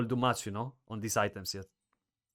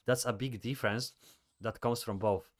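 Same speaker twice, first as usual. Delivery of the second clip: whistling nose; 4 dB quieter than usual. Real, not acted. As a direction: air whistling through the nose. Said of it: "Sorry, that's my nose. You hear it?".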